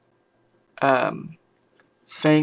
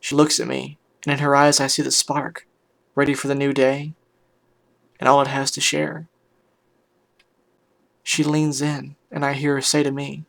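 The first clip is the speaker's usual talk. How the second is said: measured dramatic story reading; story narration; 5 dB quieter than usual. A narrator's reading. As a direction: read it out as an earnest first-person tale. Reads a story aloud.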